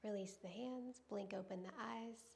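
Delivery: calm, measured yoga-teacher voice with long pauses; guided yoga centering. Real, not acted. Yoga teacher settling students into breath and intention, calm guiding voice. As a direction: guide them gently through each breath, unhurried.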